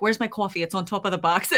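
playful Boston accent. Shown as a demonstration. Host showing off her Boston accent for a laugh. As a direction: put on a joking Boston accent. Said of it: "I might pull out my Boston accent".

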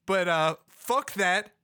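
increasingly worked-up accusation; upset, confronting. Acted. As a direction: protest to your mother, pitch climbing as you go. Garrett confronts his mother, upset.

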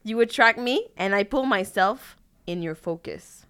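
slow, solemn reading of clumsy lyrics; slow dramatic lyric reading. Acted. Reading machine-translated lyrics to a friend, slow and solemn. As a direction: deliver each line slowly like a grand poem.

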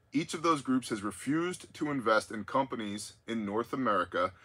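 measured read-out of a listener's letter; deliberate on-air reading; reading aloud. Real, not acted. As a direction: read the quoted intel out to the audience.

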